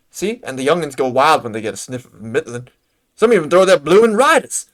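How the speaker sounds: lightly voiced country stablehand with a folksy accent; rustic chocobo trainer. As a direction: ask a favor like a weary bird trainer.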